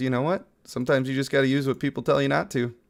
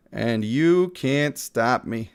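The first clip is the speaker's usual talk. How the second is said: slow playful defiance; much slower than usual. Pretend. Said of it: "So that's what I'm doing".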